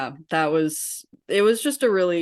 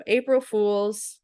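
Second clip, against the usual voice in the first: higher, drawn-out mock announcement; slow, pitched-up imitation of pranksters; imitating prankster staff; 5 semitones higher, slower than usual. Staff revealing the prank to frightened kids, imitated prankster voice. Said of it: "they all turn around and they go".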